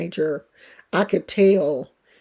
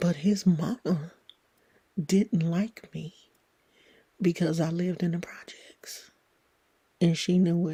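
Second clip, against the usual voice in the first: soft, hushed, secretive whisper; 6 dB quieter than usual. Telling a story about a man's mother, not wanting her to hear: whispering. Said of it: "I'm whispering because I don't want her to hear me".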